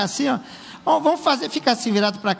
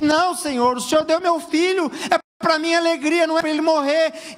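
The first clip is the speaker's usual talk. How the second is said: pleading mother; 5 semitones higher than usual. Retold or imitated. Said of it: "ela começa a dizer assim".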